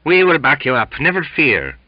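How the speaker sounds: high, loud, eager reassurance; assuring. A narrator's reading. Sailor helping sick mate to bunk, assuring eagerly. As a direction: promise loyal support to a mate. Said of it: "assured Belfast".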